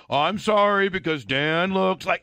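mocking fake sorry with a jab; snide apology. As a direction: apologize while sneaking in an insult. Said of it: "He had to throw in the".

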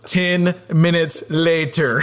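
slow, drawn-out cartoon narrator; SpongeBob narrator voice. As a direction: announce the time skip like a cartoon. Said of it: "the SpongeBob voice going".

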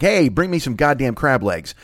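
drawn-out, easygoing demand down the phone; casual food order. Acted. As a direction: lazily call in your order. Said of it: "you make a phone call and you're like".

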